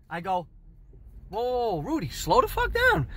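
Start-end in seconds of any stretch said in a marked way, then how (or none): 1.3-3.1 protesting. Retold or imitated. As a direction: rein in someone overexcited, voice high. Interrupts excited manager.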